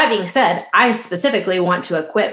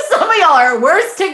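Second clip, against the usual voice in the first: laughing while talking; 12 semitones higher, 5 dB louder than usual. Real, not acted. Laughing through the joke.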